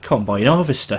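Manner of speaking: "combine harvester" in a rough Aussie accent; attempted Australian accent. Shown as a demonstration. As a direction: try it in Australian, slightly off. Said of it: "in, like, an Australian accent".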